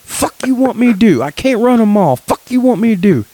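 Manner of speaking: hammed-up exasperated coworker with broken English. Retelling the coworker's outburst at the production meeting, high mock broken English. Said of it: "to give you his broken English".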